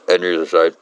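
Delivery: talking around a cigarette; cigarette in mouth. Real, not acted. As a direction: read with the smoke held in the mouth. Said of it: "solid smoke my mouth".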